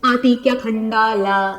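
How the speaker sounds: drawn-out question on "आती क्या खंडाला"; question intonation. Shown as a demonstration. Teacher asking an example question, "आती क्या खंडाला" in slow question intonation. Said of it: "मैंने question पूछा".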